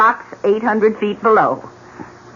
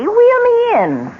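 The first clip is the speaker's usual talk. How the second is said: high, slow, imperious order; high drawn-out demand; imperious command; slower than usual. Acted. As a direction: sing it out like a queen commanding her son. Mother ordering son to push.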